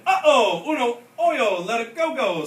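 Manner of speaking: high, loud panic; alarmed. A narrator's reading. Kitty boy flying away in the tug, high loud alarm. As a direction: cry out while flying off. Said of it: "said the kitty boy, flying".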